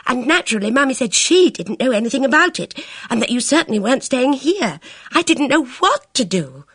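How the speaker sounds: high, anxious rush of words; fretful girl's voice; agitated. Acted. Bridget pours out her worry.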